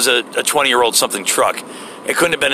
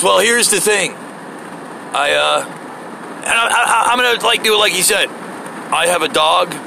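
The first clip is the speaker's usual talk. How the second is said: bumbling applicant; 4 semitones higher, slower than usual. Retold or imitated. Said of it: "He goes".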